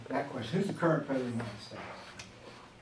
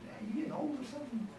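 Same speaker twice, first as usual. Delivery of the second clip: cheeky son; 10 semitones higher, 9 dB quieter, faster than usual. Retold or imitated. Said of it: "I'm thinking".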